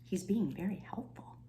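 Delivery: whispered aside to the listeners. Real, not acted. Reader tells children about the lion, soft whisper. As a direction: whisper it like a secret.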